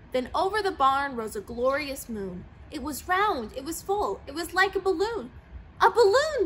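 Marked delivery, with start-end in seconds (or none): 5.8-6.5 high, loud discovery shout; excited shout. A narrator's reading. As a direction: burst out with the idea. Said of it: "the cow, cow shouted".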